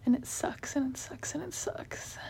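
repeated, fading into a whisper. Real, not acted.

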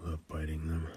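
breathy intimate whisper, very soft; sensual whisper. Acted. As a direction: whisper it close to the ear.

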